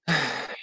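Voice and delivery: soft, weary exhale; tired sigh. Retold or imitated. Actor recalls a late night in Stockholm, tired sigh. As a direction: let out a quiet, worn-out sigh. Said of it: "I was tired".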